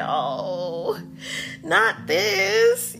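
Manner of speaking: high, wailing mock lament. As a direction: whimper it like it hurts. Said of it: "I was like".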